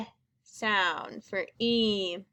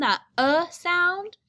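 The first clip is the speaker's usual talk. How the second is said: that uh sound, slow and higher, leaning on uh; modeled uh; 6 semitones higher, 4 dB louder, slower than usual. Shown as a demonstration. Teacher models the short vowel slowly. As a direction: hold the uh sound up for the class. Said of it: "teacher models vowel".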